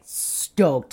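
"stoked" stretched long and low; drawn-out emphasis. Real, not acted. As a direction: linger slowly on "stoked".

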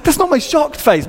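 high-pitched defensive retort; mock protest. Defending himself to his wife.

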